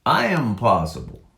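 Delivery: firm declaration of "I am possible"; stressed I am possible. Shown as a demonstration. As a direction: land hard on the "I" of "I am possible". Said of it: "She sees".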